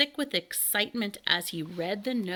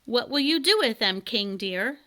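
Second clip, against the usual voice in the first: queen asking sweetly; 3 semitones higher, 4 dB louder than usual. Acted. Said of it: "asked the queen".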